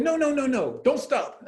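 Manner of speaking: high, loud urgent yell; coach yelling. Retold or imitated. Italian coach yelling at player who pulled up, loud. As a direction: shout at him not to quit.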